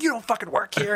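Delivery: retold angry accusation in a girl's voice; imitated mad young woman. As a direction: mimic an outraged customer. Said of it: "They were so mad".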